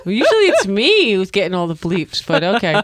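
talking through giggles; giggly tickle attack. Real, not acted. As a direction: tease while laughing out loud. Laughs while teasing co-host.

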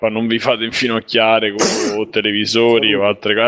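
coughing mid-sentence; coughing fit. Real, not acted. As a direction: talk through a cough. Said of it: "Adesso però è tra le cazzate la tosse". (parla tossendo)

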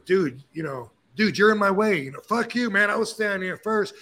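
a touch of bro rage, played for the point; mock angry outburst. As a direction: act offended someone's in your way. Acted confrontation over a spot.

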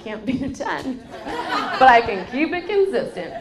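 real laugh breaking through the line; amused quip laughing into a loud finish. Real, not acted. Laughs while quoting herself.

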